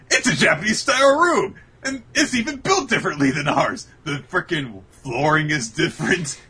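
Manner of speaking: high, loud gushing amazement; excited girls. Retold or imitated. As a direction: squeal over the room like the girls. Girls gasping at Todoroki's room.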